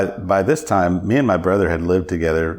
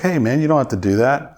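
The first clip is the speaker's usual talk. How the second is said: higher-pitched mock protest; protesting friend; 6 semitones higher than usual. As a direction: play the kicked friend objecting. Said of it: "And he's like".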